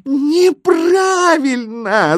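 very high, loud drawn-out wail; shrieking. A narrator's reading. The signs reject the misspelling, shrieking. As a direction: shriek it out, stretching every syllable. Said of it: "завопили знаки".

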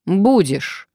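loud, high, final answer; curt retort. A narrator's reading. Blackmailer overruling the woman's refusal, curtly. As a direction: cut the objection off firmly. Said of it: "отрезал мужчина".

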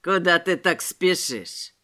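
low, sneering street thug; mocking tramp. A narrator's reading. Noseless tramp taunting Robespierre, low sneer. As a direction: taunt the passer-by. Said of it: "просипел этот безносый".

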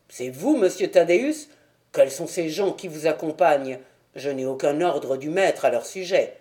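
lightly voiced guarded gatekeeper; understated gruff servant; wary doorman. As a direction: question the visitors with mild suspicion.

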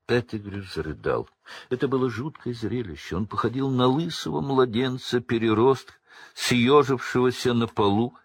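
ordinary delivery

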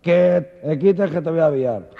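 stammer, then blurt out the threat; stuttering cow. Acted. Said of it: "Es que era tartamuda".

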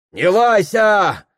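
high, loud, slow retort; crowd snapping back. Acted. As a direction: snap back at the officer. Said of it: "огрызается на пристава толпа".

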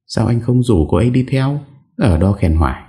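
pouting wife. Acted. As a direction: sulk at him for praising another woman. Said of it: "Thủy Tiên phụng phịu". (giọng vợ phụng phịu ghen, cao và nhanh)

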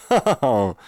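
loud high ha-ha-ha; jolly cackle. A narrator's reading. Professor laughs heartily after introducing himself. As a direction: laugh at your own joke.

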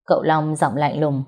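steady storyteller read; calm audiobook narration; story narration. A narrator's reading. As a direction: tell the tale evenly.

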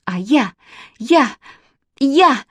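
нарастает вверх и громче; горячо не находит слов; разгорячённо. A narrator's reading. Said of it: "разгорячилась Манечка". (Манечка горячится перед мальчиком)

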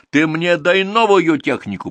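high, loud, slow demand; pressing demand. A narrator's reading. Viktor confronts the manager for new machinery, pressing demand. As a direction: press the boss hard. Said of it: "подступил он к управляющему".

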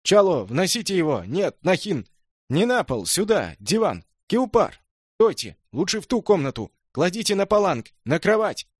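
frantic shouting. A narrator's reading. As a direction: direct the carriers in a flustered rush. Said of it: "истерически вопит Джал".

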